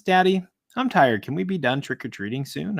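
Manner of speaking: a hint of a sleepy child. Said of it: "My four-year-old looks at me and says".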